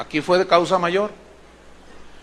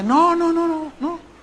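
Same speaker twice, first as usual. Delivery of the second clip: coy denial; 8 semitones higher, slower than usual. Retold or imitated. Preacher denies seeing a pastor outside, high and innocent. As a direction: play innocent, pitched up.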